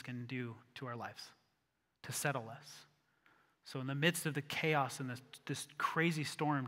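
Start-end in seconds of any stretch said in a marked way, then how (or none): 3.8-6.7 hushed whisper. Acted. Preacher hushing the room about the storm, whispered. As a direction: breathe the words out.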